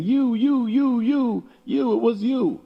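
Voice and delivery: put-on very high, lively kids' voices; children happily giving each other credit, high and bright; children pointing. A narrator's reading. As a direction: chirp it out like generous little kids. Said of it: "pointing to each other and saying".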